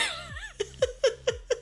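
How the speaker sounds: high wheezy burst of laughter. Real, not acted. Storyteller losing it over the memory, laughing. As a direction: crack up mid-story.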